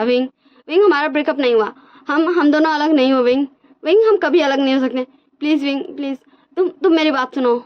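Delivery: cling to him with your words; mock desperate pleading. Wang ji holding Wing, begging him to listen, high pleading.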